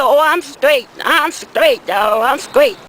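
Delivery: low, easy cool-guy brush-off; lightly voiced chill customer saying no; laid-back buyer. Customer declining after a long walk, low and relaxed. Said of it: "He said".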